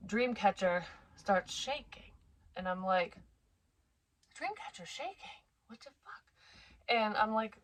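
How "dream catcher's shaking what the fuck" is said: very soft, fading into a whisper; hushed disbelief. Retold or imitated. Mother seeing the dream catcher shake, hushed disbelief. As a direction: question it under your breath, high then whispered.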